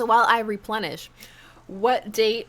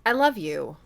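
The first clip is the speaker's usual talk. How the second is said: mildly earnest, outright declaration; sincere. Acted. Parent to Amanda as she leaves, sincere. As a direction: say it plainly and sincerely. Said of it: "say it outright and sincerely".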